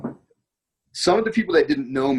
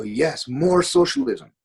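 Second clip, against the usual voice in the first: slow, higher mock-eager yes; retold enthusiastic confirmation, stretched and raised; emphatic agreement; 4 semitones higher, slower than usual. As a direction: imitate locals agreeing wholeheartedly, drawn out. Retold emphatic answer of locals.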